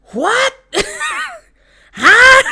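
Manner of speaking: mock puzzled what. Pisces puzzled reply.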